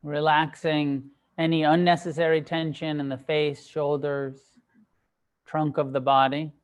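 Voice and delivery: measured meditation guidance with long pauses; unhurried meditation teacher, phrase by phrase; guided meditation. Acted. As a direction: guide them gently into stillness, leaving space between phrases. Leads a sitting meditation.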